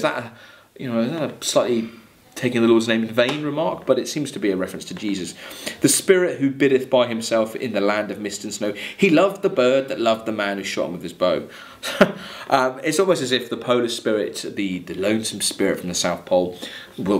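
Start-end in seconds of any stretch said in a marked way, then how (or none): 5.8-11.5 measured recital of verse; poem reading. Acted. Teacher reading the Rime aloud to class, measured recital.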